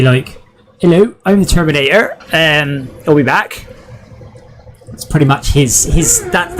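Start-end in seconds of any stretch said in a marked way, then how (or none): 0.8-3.7 mock Austrian-accented Arnold as the Terminator. Streamer showing how Arnold sounds to Germans, hammed Austrian accent. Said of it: "The Austrian accent is more or less".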